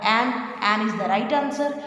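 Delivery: slow emphatic answer. Shown as a demonstration. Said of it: "तो स्वर आया तो क्या लगेगा?".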